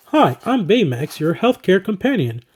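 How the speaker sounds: a hint of a mild healthcare robot, slowing at the end; Baymax impression. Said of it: "that's my best Baymax impression".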